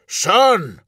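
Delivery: high, urgent call over the clash; ringing shout. A narrator's reading. Inbel calls to Vulcan above the battle, shouting. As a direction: call out sharply, pitch leaping then falling. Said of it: "Inbel's voice rang out above the clash".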